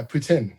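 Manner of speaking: "poutine" said as "poo-TIN"; demonstrated pronunciation. Shown as a demonstration. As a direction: say "poutine" with a short, clear final syllable. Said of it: "I don't know how to say poutine".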